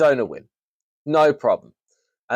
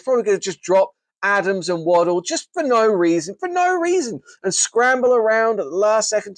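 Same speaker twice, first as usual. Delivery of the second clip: exasperated mockery; 6 semitones higher than usual. Mocking rival team's erratic moves.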